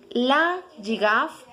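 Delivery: La girafe said slowly; slow repeat. Shown as a demonstration. Teacher repeating La girafe slowly for students. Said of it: "se pronuncia".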